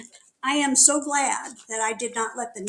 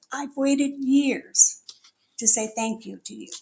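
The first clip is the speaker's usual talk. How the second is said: slow, sincere. Retold or imitated. Mike's heartfelt thanks.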